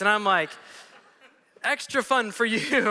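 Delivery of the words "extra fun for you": sarcastic. Retold or imitated. Sarcastic reply.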